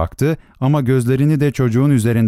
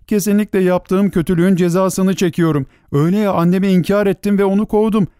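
high-pitched, regretful self-reproach; anguished remorse; 7 semitones higher than usual. A narrator's reading. Star child repents to himself, remorseful. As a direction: blame yourself with earnest resolve. Weeping boy regrets his cruelty.

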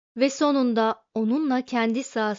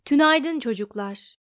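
louder greeting, a hint of nasal matron; lightly voiced motherly computer; nasal matriarchal voice; 3 semitones higher, 6 dB louder than usual. A narrator's reading. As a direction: greet them like a matron, projecting a little. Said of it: "Genizden gelen ana erkil bir tınısı vardı".

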